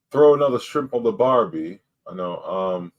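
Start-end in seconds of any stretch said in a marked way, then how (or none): 0.1-1.8 half-hearted attempt at an Australian accent; unconvincing Australian accent. Shown as a demonstration. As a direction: try a shaky-footed Aussie accent, badly. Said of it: "with an Australian accent".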